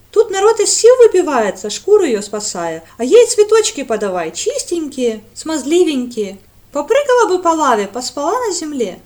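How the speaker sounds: loud, high, scornful tirade; indignant rant. A narrator's reading. Radda rants at Brent, loud and scornful. Radda ranting about the gatekeeper.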